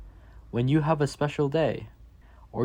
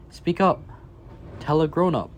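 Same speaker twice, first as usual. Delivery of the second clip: emphatic call; 5 semitones higher, faster than usual. Acted. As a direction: urge the child to speak out. Refrain urging kids to speak.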